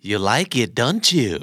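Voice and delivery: don't you falling, sure of the answer; falling question tag. Shown as a demonstration. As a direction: let the tag drop. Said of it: "การเน้นเสียง".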